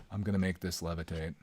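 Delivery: low monotone, barely any lift; David Blaine impression. Streamer imitates David Blaine's levitation intro, flat monotone. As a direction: drone it like a bored magician. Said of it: "the most monotone".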